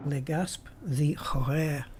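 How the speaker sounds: slow mock French accent. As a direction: say it the French way, slowly. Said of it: "I have to say that in a French accent".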